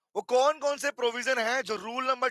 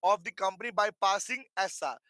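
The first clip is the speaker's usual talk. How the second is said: slow reading; much slower than usual. Shown as a demonstration. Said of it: "तो बात बोल".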